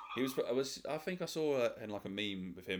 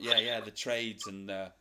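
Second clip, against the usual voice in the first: mock intelligent; 2 semitones higher, 5 dB louder, slower than usual. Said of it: "tried to act all intelligent".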